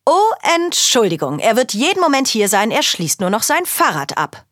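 a flustered host covering a delay. Acted.

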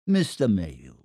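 tiefer, öliger Anrufer; hilfsbereit, ölig. Acted. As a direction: biete ölig deine Hilfe an. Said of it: "sagte Mister Croup hilfsbereit". (gespielt hilfsbereit, tief)

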